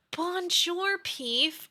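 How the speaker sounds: a playful French bonjour; hammed-up French greeting; mock French. Teasing a friend with a mock French hello.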